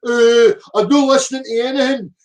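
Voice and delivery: mocking a commenter who won't listen; mocking a mantra-repeater. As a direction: parrot it like a dim zealot. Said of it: "repeat religious mantra".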